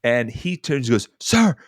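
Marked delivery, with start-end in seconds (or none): 1.2-1.6 high, loud call to attention. Retold or imitated. Old man stepping in to rebuke the line-cutter, loudly. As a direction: imitate an old man calling out firmly. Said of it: "like, very loudly".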